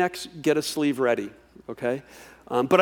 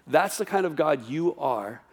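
softer, resigned walking away; giving up on God; 2 semitones lower, 6 dB quieter than usual. Retold or imitated. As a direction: quietly turn your back and say you are done. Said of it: "the tendency is just to go".

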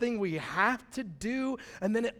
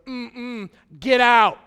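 much louder sudden get out; mock angry shout; 3 semitones higher, 12 dB louder, much slower than usual. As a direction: bark it like a furious mother. Sarah voiced expelling Hagar.

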